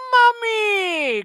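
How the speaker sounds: high, loud drawn-out cry; mummy cry. Acted. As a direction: wail it from inside the wrappings. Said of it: "cried the boy inside the ancient yellowed wrappings".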